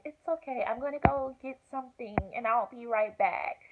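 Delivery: high, light reassuring voice; sweet triage lady. Retold or imitated. Triage lady stepping out briefly, high reassuring voice. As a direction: imitate a nurse soothing a patient.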